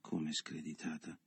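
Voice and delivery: thin voice. A narrator's reading. Carla hurt by Leo's insult, in a thin small voice. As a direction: barely voice the shocked question. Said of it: "con una voce esile".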